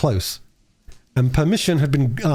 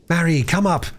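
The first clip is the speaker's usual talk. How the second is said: lightly voiced retort; 6 semitones higher than usual. A narrator's reading. Gascoigne retorting.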